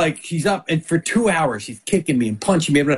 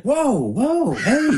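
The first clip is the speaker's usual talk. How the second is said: high, swooping shocked objection; imitated wife's protest; 10 semitones higher, much slower than usual. Husband imitating his wife halting him, high mock protest.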